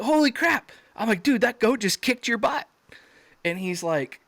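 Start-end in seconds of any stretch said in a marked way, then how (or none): 0.0-0.7 high-pitched mock astonishment; retold shock. Retold shock at buddy knocked down. 1.2-2.7 high-pitched, incredulous needling of a buddy; retold amazement. Retold jab at knocked-down buddy.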